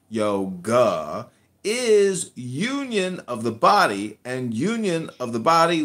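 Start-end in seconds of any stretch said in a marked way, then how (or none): 0.1-1.3 YOGA with an open AH at the end; yoga, lower, ending on AH; corrected pronunciation. Real, not acted. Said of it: "It's not an R at the end".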